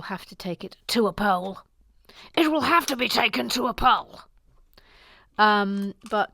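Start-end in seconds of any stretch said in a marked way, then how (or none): 2.3-4.2 put-on formal proclamation; mock-official announcement. Host declaring a vote to viewers, mock-official.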